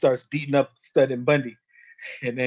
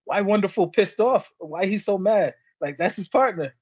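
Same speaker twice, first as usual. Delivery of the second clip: imitating the announcer; 5 semitones higher than usual. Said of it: "Vince McMahon was like".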